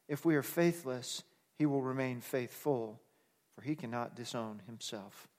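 measured reading of scripture; solemn bible reading. Acted. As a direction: read the verses with weight. Reads scripture aloud.

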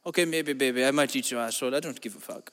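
hammed-up bedroom voice; low seductive murmur. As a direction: drop low and purr it like a lover.

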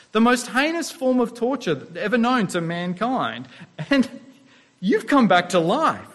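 playful take on a disciple ready to hunt Romans; eager vengeful disciple. Retold or imitated. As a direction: pitch it up like a follower itching for a fight. Voicing disciples wanting revenge.

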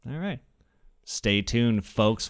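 ordinary talk

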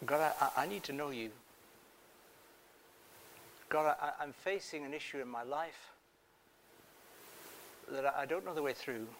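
a hint of a hushed, pleading believer; acted prayer. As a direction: pray softly as if ashamed before God. Preacher voices an anguished prayer.

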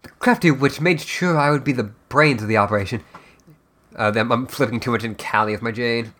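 measured, dramatic storyteller narration; fireside storytelling. Acted. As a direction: spin the tale by the fire. Storytelling voice continues.

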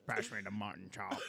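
comic British dinner request; put-on, hammed-up British voice; British accent. Repeating the bit for confused friends, British accent. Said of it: "the British people".

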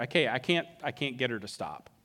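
resigned giving up. Acted. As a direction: give up with a low, quiet concession. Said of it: "she just stops urging her".

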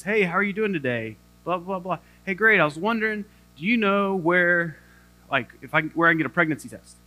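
easy, casual, confident request; smooth fluent self. Retold or imitated. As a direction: breeze through it like a fluent speaker. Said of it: "what I sound like in my head is".

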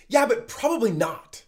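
loud, put-on doubting voice; skeptical inner voice. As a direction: dismiss it with a scoffing yeah-but. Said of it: "the thing that kind of felt weird".

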